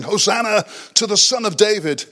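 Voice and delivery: lightly acted shout of praise; acclaiming crowd. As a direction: call it out like a welcoming crowd. Acts the crowd acclaiming Jesus.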